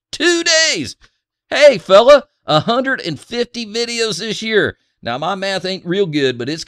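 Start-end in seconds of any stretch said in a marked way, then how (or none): 0.1-2.3 high, loud hammed-up yell; mock outraged yell. Reading a viewer's nagging comment, mock outraged and loud. 2.5-4.8 mock nagging rant. Reading a viewer's complaint aloud.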